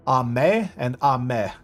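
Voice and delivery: first AME goes up, second AME goes down; rising, then falling tone. Shown as a demonstration. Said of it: "if it goes up, it's rain".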